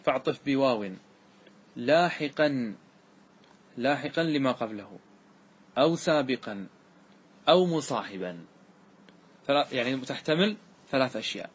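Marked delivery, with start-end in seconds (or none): 0.0-8.4 reciting verse. Shown as a demonstration. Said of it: "هذا معنى قول الناظم".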